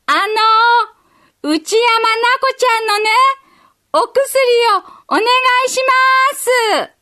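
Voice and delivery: put-on a tiny girl yelling her errand at full strength; 精一杯大声で叫ぶ幼い女の子; little girl shouting. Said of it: "思いっきり大きな声を出した".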